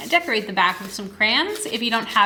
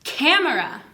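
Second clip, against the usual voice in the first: put-on demo to child; 5 semitones higher than usual. Shown as a demonstration. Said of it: "So I might say".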